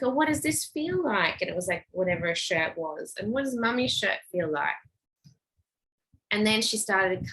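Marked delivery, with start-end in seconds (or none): 0.0-4.8 put-on lifted curious question to a child; lightly sing-song curiosity. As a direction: coax her to notice the texture. Redirecting girl to textures.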